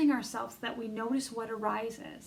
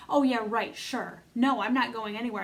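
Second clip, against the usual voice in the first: louder, scoffing and defiant; assertive, defiant part; 6 dB louder than usual. Pretend. The neglected inner part defiantly refusing to leave, scoffing loudly. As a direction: push back hard like a stubborn part. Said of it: "it might assert itself".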